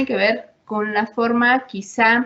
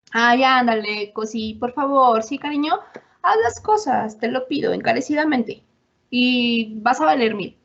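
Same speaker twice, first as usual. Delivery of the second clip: hammed-up sweet talk to a partner; mock sugary pleading. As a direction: overdo the honeyed begging to make fun of it. Overly sweet assertive parody.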